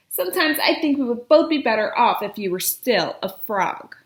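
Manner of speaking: loud, furious princess tantrum; angry fit. Acted. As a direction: rant at him like a spoiled princess. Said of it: "threw in a perfectly awful fit".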